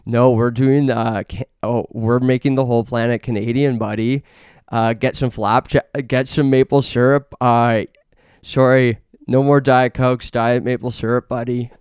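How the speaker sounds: hammed-up patriotic shout at the world, buddy; mock Canadian boast. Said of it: "and we say".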